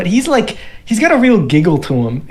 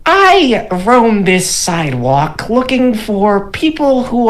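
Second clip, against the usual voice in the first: high, slow grandiose gnome voice; 6 semitones higher than usual. Acted. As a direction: proclaim your vision like a pompous gnome. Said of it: "He's like".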